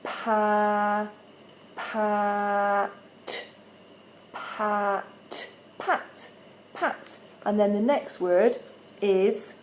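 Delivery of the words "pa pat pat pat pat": "pat" said over and over, fading to a whisper; blending demo, fading. Shown as a demonstration. Teacher blending with a child, fading to a whisper. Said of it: "I'm gonna go".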